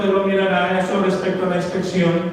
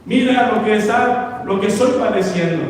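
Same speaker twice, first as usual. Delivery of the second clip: higher, urgent plea to the Lord; pleading prayer; 5 semitones higher than usual. Retold or imitated. Believer cries out to the Lord in hardship, urgent higher plea. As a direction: beg the Lord to see your suffering. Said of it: "Y decimos".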